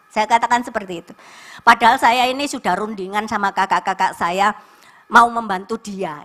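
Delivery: ordinary delivery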